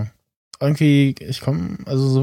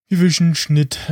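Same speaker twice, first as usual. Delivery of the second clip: slow, higher mock French accent; 4 semitones higher than usual. Podcaster imitates dubbed Star Wars alien, mock French accent. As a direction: ham up a French alien accent from the German dub. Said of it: "den französischen Akzent von diesem einen komischen Magger".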